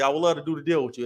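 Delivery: brisk business-room politeness; quick, relaxed deal-making voice; business talk. Shown as a demonstration. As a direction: agree smoothly, like in a business meeting. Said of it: "It's a whole lot different than".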